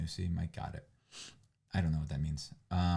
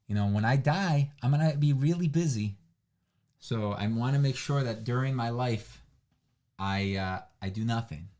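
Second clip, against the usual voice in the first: sarcastic. Pretend. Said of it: "That was sarcasm".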